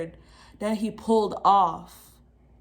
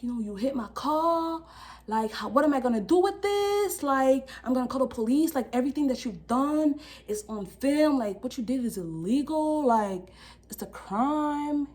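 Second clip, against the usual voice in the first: strict; 4 semitones higher than usual. Retold or imitated. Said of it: "he was so strict".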